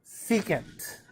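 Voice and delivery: "secant" said slowly and clearly; demonstrated pronunciation. Shown as a demonstration. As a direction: model "secant" for the class. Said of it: "you pronounce it".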